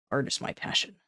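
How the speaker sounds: breathy whisper. Pretend. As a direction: hush it like a secret. Whispered, then sung out.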